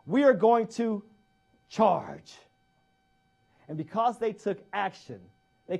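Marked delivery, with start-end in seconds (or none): 0.1-2.4 slow, loud battle command; slow drawn-out officer's order to fix bayonets. Retold or imitated. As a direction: call the charge to the troops. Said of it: "He says".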